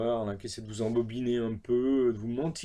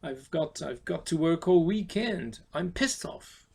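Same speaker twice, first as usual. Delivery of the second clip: annoyed; 4 semitones higher, 3 dB louder, slower than usual. Shown as a demonstration. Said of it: "vous êtes très énervé".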